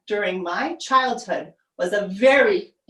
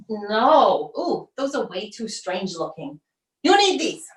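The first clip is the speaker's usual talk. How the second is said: bossy mom. Acted. Mom voiced.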